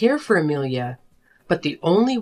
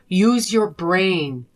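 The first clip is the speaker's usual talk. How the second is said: slow scolding; much slower than usual. Acted. Wife scolding husband.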